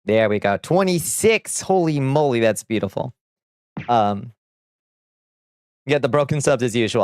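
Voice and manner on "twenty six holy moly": high, slow drawn-out wonder; amazed. Real, not acted. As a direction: gasp at the number. Amazed at 26 months.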